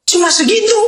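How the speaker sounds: high, annoyed complaint; grumbling disciples. Acted. Disciples complaining to Jesus about the loaves, annoyed. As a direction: whine that it's all they have. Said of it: "bayangkan sambil marah mereka".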